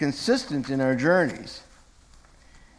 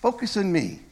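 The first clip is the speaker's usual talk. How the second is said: lightly acted, higher-pitched call for attention; Jesus; 7 semitones higher than usual. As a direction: urge him to focus, pitch lifted. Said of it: "picturing Jesus doing the same thing to Peter".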